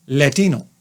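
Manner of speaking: LATINO with an affected Spanish accent; mock the put-on Spanish way of saying LATINO. Shown as a demonstration. Doctor parodying a presenter, Latino accent. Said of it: "did it in a Latino accent".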